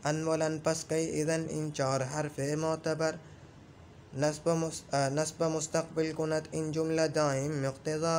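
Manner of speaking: slow, level-pitched chanted verse; verse recitation. Shown as a demonstration. Teacher reciting a grammar verse to students, slow monotone chant. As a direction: recite the couplet in a steady singsong.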